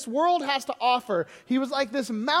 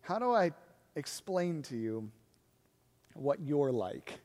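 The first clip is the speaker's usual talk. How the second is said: Jesus asking the crowd; 8 semitones lower, 8 dB quieter, slower than usual. Retold or imitated. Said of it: "he looks at the crowd and he says".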